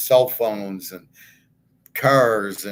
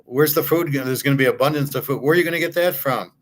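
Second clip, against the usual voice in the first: faster, higher incredulous questioning; eye-rolling challenge; 3 semitones higher, faster than usual. Retold or imitated. Scoffing at a young lifeguard, fast and incredulous. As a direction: pepper her with disbelieving questions. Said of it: "I'm rolling my eyes at her going".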